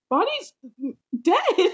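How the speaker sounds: high, slow wail through laughter; drawn-out, high-pitched fannish lament; mock distraught. Real, not acted. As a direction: wail it, half laughing, over a beloved character. Fan mock-grieving over character's death.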